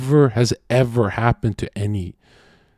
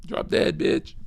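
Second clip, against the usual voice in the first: whispered insult; 6 dB quieter than usual. Real, not acted. Aside insult then I'm kidding.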